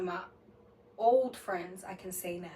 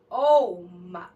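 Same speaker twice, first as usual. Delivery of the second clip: shocked gasp; 12 dB louder than usual. Retold or imitated. Sees her face on camera.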